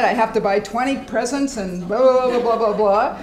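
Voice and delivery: a mock rant about chores; exasperated rant. Shown as a demonstration. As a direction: rattle it off fed up. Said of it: "something you're pissed off about".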